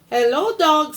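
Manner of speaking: high bright chirpy hello; cheery duck greeting. Acted. Duck calls out to Cow as he rides past, high and cheery. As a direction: greet like a happy little duck on a bike.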